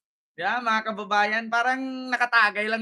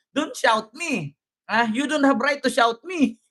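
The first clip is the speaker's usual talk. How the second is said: imitating ate's English. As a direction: lightly mimic an indignant woman. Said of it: "Pareho kami ni ate mag-English". (bahagyang panggagaya sa Ingles ni ate)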